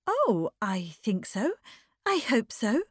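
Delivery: light, bright reassurance. Acted. Bertha reassuring her anxious guest, brightly. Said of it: "said Bertha brightly".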